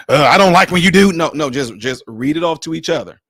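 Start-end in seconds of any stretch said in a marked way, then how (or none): 0.1-1.1 accusing tone. Shown as a demonstration. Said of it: "Don't say it with no".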